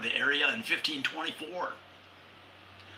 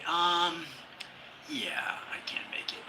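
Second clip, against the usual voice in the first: hushed, unvoiced, sheepish brush-off; awkward whispered excuse; 6 semitones higher than usual. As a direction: whisper the excuse like you're hiding. Dodging alien dinner invite.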